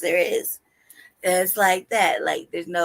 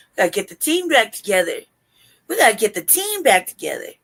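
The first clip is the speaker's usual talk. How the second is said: mock rallying cry; 5 dB louder than usual. Mock rallying plea, high swoops.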